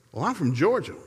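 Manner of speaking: a huffy high wife voice; imitating his wife. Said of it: "I said".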